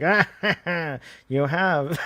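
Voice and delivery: hammed-up villain laugh; twirly mustache villain. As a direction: cackle like a cartoon villain. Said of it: "he is very twirly mustachio".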